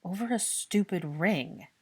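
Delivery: slow, annoyed growl; disgusted slow growl; low growl. Acted. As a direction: grind the words out slowly in disgust. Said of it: "repeated in a growl".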